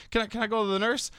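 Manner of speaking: put-on high-pitched kid voice with a laugh; imitating the kid. Teacher mimics student explaining his nickname, high kid voice. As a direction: squeak it up like a carefree student.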